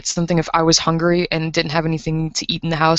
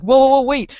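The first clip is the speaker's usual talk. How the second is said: startled plea; 7 semitones higher, 5 dB louder than usual. Retold or imitated. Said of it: "and she's like".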